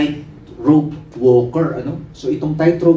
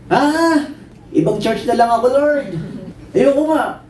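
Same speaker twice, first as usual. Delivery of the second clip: high, whiny protest; comic reluctance; balking refusal; 9 semitones higher than usual. Acted. Believer refusing God's hard instruction, high indignant protest. Balks at approaching an enemy.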